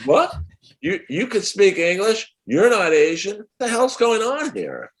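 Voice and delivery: put-on a stunned kid whose mind is blown; shocked disbelief. Comedian replaying his boyhood shock backstage, squeaking in disbelief.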